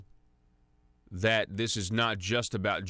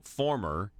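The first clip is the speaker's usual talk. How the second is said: "former" set apart and drawn out; emphasis on former. Real, not acted. Host pointedly flags the ex-director's status, stressing "former". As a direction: lean slowly on the word "former". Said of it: "I emphasize the word former".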